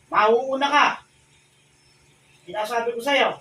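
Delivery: shouted threat to the spirit; loud threat. Real, not acted.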